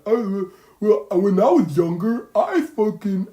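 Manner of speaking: put-on high, loud rambling old-timer voice; mock a know-it-all who won't get to the point; rambling elder. Mocking people who give biased answers, high rambling voice. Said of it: "And you're like".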